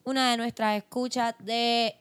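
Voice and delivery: blocked nose while talking; stuffy nose. Real, not acted. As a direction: speak through a stuffy nose. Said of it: "tengo la nariz tapada".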